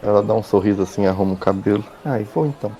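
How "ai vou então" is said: woman's voice. Acted.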